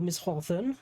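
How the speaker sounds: British "Hawthorne", no r, swallowed ending; British accent. Shown as a demonstration. Streamer disowning how they said the name, British accent. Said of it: "I'm not British talking about".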